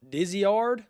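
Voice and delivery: "Diziard" as DIZ-ee-ard; "Diziard" in three drawn-out syllables; spelling pronunciation. Shown as a demonstration. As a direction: sound out "Diziard" as it is written. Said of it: "It's spelled".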